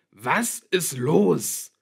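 loud, high, very slow demand; bellowing. A narrator's reading. Father chases daughter downstairs, bellowing. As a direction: roar each word separately. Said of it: "brüllte er".

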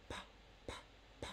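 crisp popped p, lips pressed together; p sound. Shown as a demonstration. Showing kids how to pop the p. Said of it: "put your lips together and do this".

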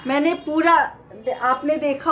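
muffled behind respirator; speaking into mask; through a face mask. Real, not acted. Seen 4: N95 mask worn over mouth, removed around 2.2 seconds.

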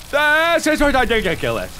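"This" stretched long, "ridiculous" garbled; angry, mangled repeat. Real, not acted. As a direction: drag out "This", then stumble through "ridiculous". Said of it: "I am so angry".

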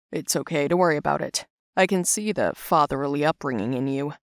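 lightly voiced low, kindly man; reassuring older figure. Mister Chuck forgiving the girl, low and reassuring. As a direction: reassure in a slightly deepened voice.

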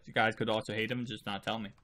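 normal talking voice

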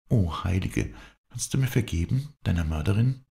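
high-pitched, distraught pleading; anguished confession. A narrator's reading. Viola begs her dead sister's forgiveness, in anguish. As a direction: plead high, full of remorse.

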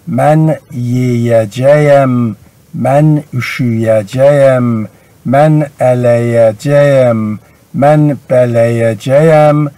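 slow, measured list of forms; careful slow demonstration; slow example list. Shown as a demonstration. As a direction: read each example slowly for learners. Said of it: "مثال".

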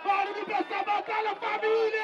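high rallying shout to the crowd; calling for noise. Real, not acted. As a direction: call out high to rouse the whole crowd. (grito agudo pedindo barulho à plateia)

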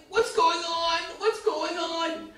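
a touch of tearful shock; mock tearful disbelief. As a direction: quote him choked up, the last one slow. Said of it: "He's crying".

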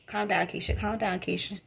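hushed reminder to the alter ego to settle; calming herself down. Real, not acted. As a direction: talk yourself down softly. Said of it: "Keisha getting worked up".

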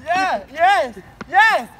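high, slow insisting he's okay; strained reassurance. Acted. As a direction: force out that you're fine. Faking being fine after fall.

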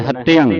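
ਹਤਿਅੰ with a tight doubled t; tightened pronunciation. Shown as a demonstration. Teacher modelling for student to repeat, ਹਤਿਅੰ said tightly. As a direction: press into the t of ਹਤਿਅੰ. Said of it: "ਇਹਨੂੰ ਵੀ ਉਸਾ ਕੱਸ ਕੇ ਬੋਲਣਾ ਹੈ".

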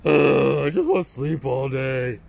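put-on a touch of whiny teen; teenager voice. Shown as a demonstration. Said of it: "That's bad voice".

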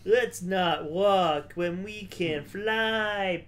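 put-on slow, creaky old man voice; an old sage drawling slowly. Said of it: "as I go back to my old man voice".

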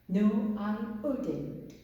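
very slow, every word drawn out; slow classroom answer; slow model answer. Shown as a demonstration. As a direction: spell it out slowly for the class. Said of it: "그러면 no를 쓰시고요".

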